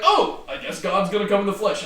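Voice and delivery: giggling pretend epiphany; amused imitation of a naive reader; laughing mock realization. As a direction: joke it out through a laugh.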